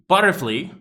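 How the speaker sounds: wrong final vowel in "butterfly", flee; mispronunciation. Shown as a demonstration. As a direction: end "butterfly" on "flee" instead of "fly". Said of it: "the pronunciation is wrong".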